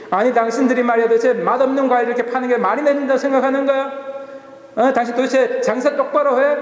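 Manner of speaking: 할아버지 흉내로 높게 소리치듯; mock yelling. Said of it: "그래서 막 소리를 질러대는 거예요".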